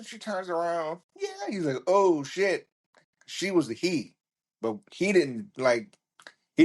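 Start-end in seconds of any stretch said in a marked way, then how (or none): 1.9-2.7 shocked. Retold or imitated. Friend realizes the girl is a man.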